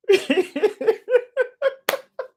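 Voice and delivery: long, very high real laugh; high laughter that keeps rippling on. Real, not acted. Preacher tickled by asking God for problems, very high long laugh. Laughs at his own absurd prayer.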